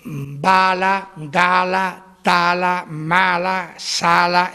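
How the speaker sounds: each word set apart slowly; slow, careful word list; slow minimal pairs. Shown as a demonstration. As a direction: list the words slowly for contrast. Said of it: "por ejemplo".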